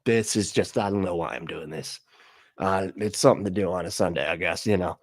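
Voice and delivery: low, half-hearted awkward mumbling. Pretend. Woman on camera unsure why she's there, awkward. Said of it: "like, awkward".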